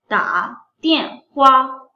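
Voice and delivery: ta tian hua said slowly, syllable by syllable; slow careful word model; slow Chinese demo. Shown as a demonstration. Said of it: "इसका क्या मतलब है".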